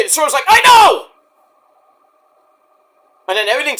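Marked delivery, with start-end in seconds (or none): 0.5-1.1 very high, very loud imitated shout; hammed-up shouted comeback; Swerve yelling. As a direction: bellow the reply at top pitch. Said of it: "Page and Swerve are yelling at each other".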